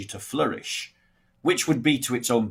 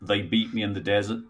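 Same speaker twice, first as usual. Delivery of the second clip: American accent; 3 dB quieter than usual. Shown as a demonstration. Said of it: "me doing a ... an American accent".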